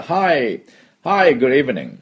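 friendly server's evening greeting. Shown as a demonstration. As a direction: greet the guest like an old friend. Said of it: "友達のように".

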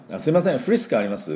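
フリスク said as English "Frisk" inside a polite Japanese question; 英語風すぎる発音. Acted. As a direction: ask for フリスク with an over-good English accent. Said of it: "こんな感じで、". (フリスク だけ英語そのままの発音で)

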